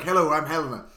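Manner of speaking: a hint of put-on Irish accent; Helena Bonham Carter. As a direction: lightly imitate an apparently Irish accent. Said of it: "It sounds a bit like this".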